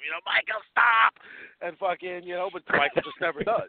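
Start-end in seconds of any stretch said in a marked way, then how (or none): 0.2-1.1 mock yell, a little raised; yelling Loomis. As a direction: imitate someone yelling at a killer to stop. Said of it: "always fucking yelling at him".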